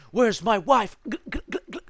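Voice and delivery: high, hammed-up drunk slur then gurgling; mock drunk. Narrator joking about his future drunk self, mock slurred gurgle. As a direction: play a future drunk losing it. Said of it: "I become a raging alcoholic".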